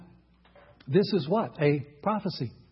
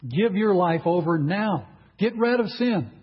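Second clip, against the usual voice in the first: preacher's urgent call to repent; slow, emphatic prophet's summons; 3 dB louder than usual. Retold or imitated. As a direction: call it out firmly, stretching the words. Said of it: "He's calling for people".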